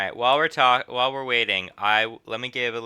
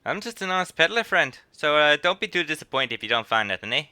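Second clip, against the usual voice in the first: put-on higher, wheedling old peddler; lightly voiced sly old man; 5 semitones higher than usual. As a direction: plead innocence like a shifty old trader.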